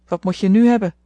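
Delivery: licht grimmige oude tante, wat luider; grimmig. A narrator's reading. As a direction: bits en nors gevraagd, licht aangezet. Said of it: "vroeg ze, grimmig". (grimmige tante, licht gespeeld)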